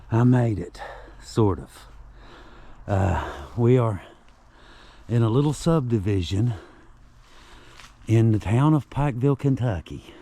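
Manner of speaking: panting after the uphill walk; winded, catching breath between phrases. Real, not acted. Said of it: "I'm out of breath".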